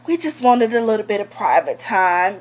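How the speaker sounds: breathy whispered excuse; mock whisper. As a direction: whisper it sheepishly. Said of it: "This bitch gonna talk about some".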